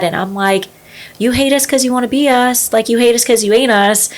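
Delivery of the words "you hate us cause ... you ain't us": higher-pitched defiant comeback; defiant personality. Retold or imitated. American teen answering critics abroad, defiant. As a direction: throw it back at them, pitched up. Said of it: "kind of personality".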